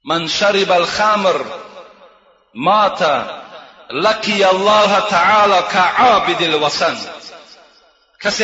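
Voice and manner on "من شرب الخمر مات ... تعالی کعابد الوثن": slow, measured Arabic recitation, each word weighed; slow hadith recitation. Acted. Preacher recites the hadith to the congregation, slow and solemn. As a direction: intone the Prophet's words slowly and solemnly.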